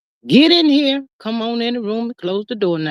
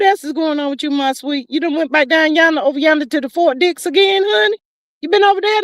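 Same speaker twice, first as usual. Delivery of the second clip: high teasing; 5 semitones higher than usual. Real, not acted. Teasing chat member.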